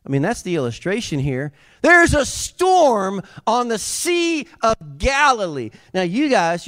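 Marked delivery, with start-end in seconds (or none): 1.8-5.7 high, loud and slow, building the storm; booming preacher call. Acted. Preacher booming the storm to the congregation, loud and slow. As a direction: paint the storm big for the crowd.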